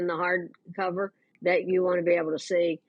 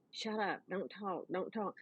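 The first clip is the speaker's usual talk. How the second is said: very soft, urgent shushing; hushed warning; 14 dB quieter than usual. Retold or imitated. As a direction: keep your voice down so nobody notices. Acting out hiding her from fans.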